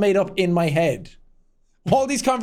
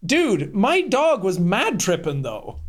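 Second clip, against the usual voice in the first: ironic zoomer; slower than usual. Pretend. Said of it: "if that's Gen Z talk".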